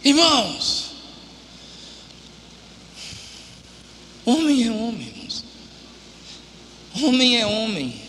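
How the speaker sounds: hushed, low, heartfelt appeal to the brothers; intimate quiet preaching. Acted. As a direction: lean in and speak man to man.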